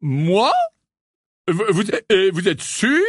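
disconcerted. A narrator's reading. Lockhart doubts he ever taught at Poudlard, disconcerted. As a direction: stammer it in puzzled disbelief. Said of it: "un peu déconcerté".

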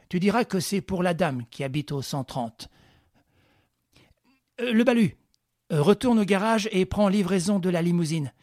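a lightly voiced confident ringleader; Lupin giving orders. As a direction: bark out instructions to your men.

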